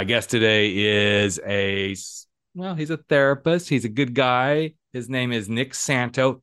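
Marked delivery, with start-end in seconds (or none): 4.9-6.4 Santo, ending on an open "o" with no s; careful name pronunciation. Shown as a demonstration. Host correcting himself on guest's name, careful pronunciation of Santo. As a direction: say "Santo" without a final s. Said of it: "I'm gonna get it right".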